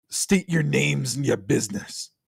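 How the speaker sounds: harsh, rough, rasping hiss. Game master voices an unseen speaker from a cavern slit: harsh hissing voice. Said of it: "a harsh voice hisses".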